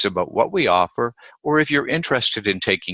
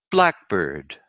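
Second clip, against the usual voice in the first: Blackbird with BLACK stressed; stress on first part. Shown as a demonstration. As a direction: hit BLACK in Blackbird, let bird drop. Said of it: "generally the first part".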